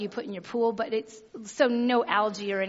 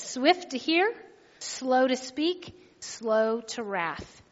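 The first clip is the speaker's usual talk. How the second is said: scripture reading; slower than usual. Shown as a demonstration. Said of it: "It says".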